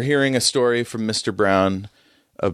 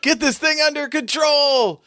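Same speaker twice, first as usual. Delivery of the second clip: high, urgent shout into a headset; shouting order. Acted. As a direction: bark the command over the noise. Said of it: "she shouts into a headset".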